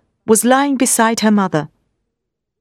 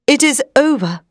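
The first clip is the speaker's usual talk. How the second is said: quiet grief; 6 semitones higher than usual. A narrator's reading. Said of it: "said Doctor Seward".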